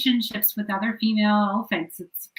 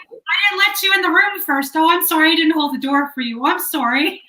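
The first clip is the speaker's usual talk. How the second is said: playful, over-polite apologizing; hammed-up string of sorries; mock apologetic Canadian; 3 semitones higher than usual. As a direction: pile on the mock apologies, pitched slightly up. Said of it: "all we do is say sorry".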